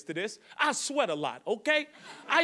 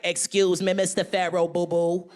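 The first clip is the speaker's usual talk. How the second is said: indignant comic impression, emphatic and insistent; Cat Williams, mad; 4 dB louder than usual. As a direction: lecture him in an outraged put-on voice. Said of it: "he was so mad".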